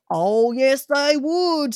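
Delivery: cheeky Cockney mimicking a gent; mocking imitation. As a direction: mimic him with a smirk. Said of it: "imitating of him".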